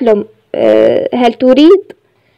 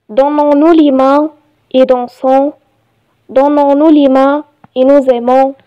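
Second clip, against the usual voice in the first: measured reading with pauses between phrases; poem recitation; much slower than usual. Shown as a demonstration. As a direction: recite it line by line, evenly paced. (إلقاء قصيدة بتأنٍّ)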